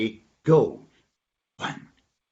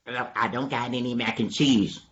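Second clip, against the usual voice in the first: slightly lowered answering voice; subdued denial. Acted. Dog answers donkey's food question, slightly lowered denial. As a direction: let it sink for the reply.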